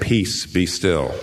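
churchy King James reading, slow and reverent; pious. Shown as a demonstration. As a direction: intone it like a stained-glass saint. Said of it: "it's so pious".

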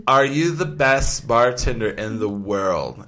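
put-on slow, sloppy drunk girl. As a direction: slur it like a tipsy girl at a bar. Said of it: "She goes".

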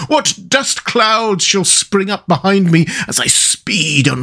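high, slow, faraway Toad voice; dreamy Toad. A narrator's reading. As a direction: drift off into a daydream. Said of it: "in a dreamy monotone".

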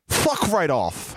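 slow try at a British accent; half-hearted British delivery; attempted British accent. Shown as a demonstration. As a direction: draw it out in a tentative British accent. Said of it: "do it with more British accent".

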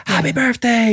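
high, bright-pitched mock greeting; big energy. Dad replaying his overeager greeting, high and bright. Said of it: "you know, big energy".

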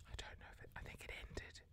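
unsure, whispered thinking aloud; whispered musing. Real, not acted. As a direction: whisper your doubts to yourself.

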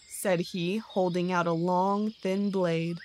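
usual speaking voice

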